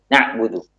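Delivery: quick "Na'budu" with the ain cut like a hamzah; stopped ain. Shown as a demonstration. Teacher showing the wrong, hamzah-like ain, clipped. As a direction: snap the ain of "Na'budu" shut. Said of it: "Tidak dibaca dengan syiddah".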